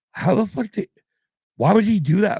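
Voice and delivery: high, disbelieving wife voice; wife's baffled question. Retold or imitated. Wife asking why the singer risked the lightning, high and incredulous. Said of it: "and Kim's like".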